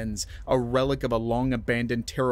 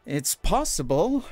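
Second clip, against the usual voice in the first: high, slow, buzzing excitement; barely contain the thrill; manic energy; 5 semitones higher, slower than usual. A narrator's reading. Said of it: "a manic energy buzzing in her voice".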